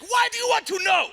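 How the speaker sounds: high mock shout; mock suspicious shout. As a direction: bark it like a paranoid interrogator. Imitating a suspicious man.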